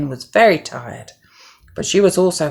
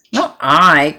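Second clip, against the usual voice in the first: quacked; 6 dB louder than usual. Acted. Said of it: "quacked the duck".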